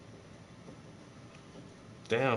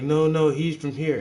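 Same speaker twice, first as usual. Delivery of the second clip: mock state official, slow; 5 semitones higher, 6 dB louder than usual. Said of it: "the state be like".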